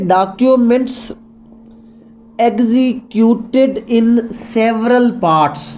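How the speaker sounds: very slow, word by word; slow dictation. Shown as a demonstration. Law teacher dictating the key phrase very slowly. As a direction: spell it out slowly for students to note. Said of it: "teacher dictates legal phrase slowly".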